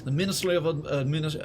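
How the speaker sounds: loosely put-on Russian accent; a hint of mock Russian officialdom; rough Russian accent. Gamer reading a ministry bulletin, loose Russian accent. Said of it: "get the accent a bit more Russian".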